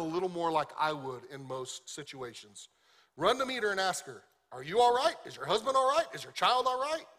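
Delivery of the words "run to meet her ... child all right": urgent concern. Acted. Elisha urgently sending servant to check.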